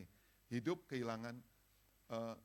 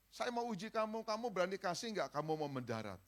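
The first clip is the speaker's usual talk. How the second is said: voicing God; 6 semitones higher, 5 dB louder than usual. God speaking to preacher, retold.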